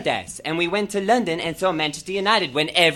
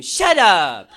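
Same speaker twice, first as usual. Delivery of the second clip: mock snap; 9 dB louder than usual. Snapping at imagined critics.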